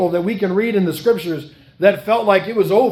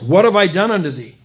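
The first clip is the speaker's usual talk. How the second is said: louder, crying out the repeated question; anguished cry; 4 dB louder, faster than usual. Acted. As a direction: lift it into a pained outcry. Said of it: "He says".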